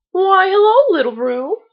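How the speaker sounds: high, bright burst of joy on the greeting; delighted exclaim. A narrator's reading. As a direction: greet a dear friend with delight. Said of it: "he exclaimed".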